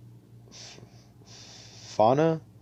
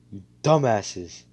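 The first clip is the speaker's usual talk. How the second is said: louder, slow, contemptuous insult; slow angry insult; 6 dB louder, slower than usual. Retold or imitated. Asta scolding the dead enemies, slow louder contempt. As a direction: spit it out slowly in disgust. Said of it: "he's actually getting pissed".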